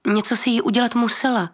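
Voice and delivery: výrazně výš, podrážděně; téměř vyjet na dítě; skoro křik. Acted. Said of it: "Téměř se na něho rozkřikla". (téměř rozkřiknutě)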